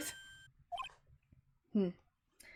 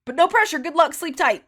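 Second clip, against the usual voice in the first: loud, bright, sing-song taunt; villain signs off with loud mock cheer; 6 semitones higher, 12 dB louder than usual. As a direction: cheerfully taunt the defeated lawyer.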